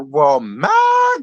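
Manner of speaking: mock outraged shout. Reality show recapper yelling at Diana. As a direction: shout it out like you can't believe her. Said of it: "I said".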